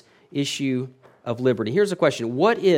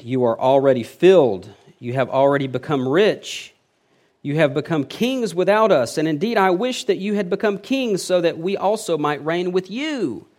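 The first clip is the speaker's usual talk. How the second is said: mock admiration, climbing higher as it goes; loud sarcastic praise lifting into a high finish; somewhat sarcastic; 4 semitones higher, 5 dB louder than usual. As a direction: lay on the sarcasm, pitch rising to the end. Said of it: "he gets somewhat sarcastic with them".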